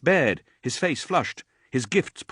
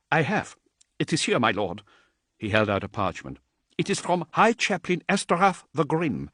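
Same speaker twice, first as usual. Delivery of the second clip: a hint of a higher, timid messenger; lightly voiced nervous adept; 6 semitones higher than usual. Terrified adept addressing Dante, lightly higher and timid. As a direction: introduce yourself with nervous awe.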